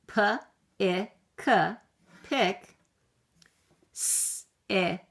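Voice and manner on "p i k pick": letter by letter, then blend; sounding out letters. Shown as a demonstration. Teacher sounding out words with young kids. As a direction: spell it out then say the word. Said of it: "Let's sound out the next ones".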